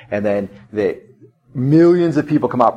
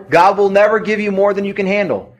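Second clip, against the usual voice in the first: mocked misquote; 9 semitones higher, 3 dB louder than usual. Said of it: "misquoted Bible".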